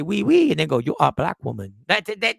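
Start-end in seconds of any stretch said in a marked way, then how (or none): 0.0-0.5 loud, badly faked French "oui"; mock French accent. Quoting own muddled shopkeeper, mock French accent. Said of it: "how the Chinese girl say". 0.8-1.7 low-pitched, badly faked Chinese accent; mock Chinese accent. Mocking own failed impression, mock Chinese accent. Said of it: "how the Chinese girl say".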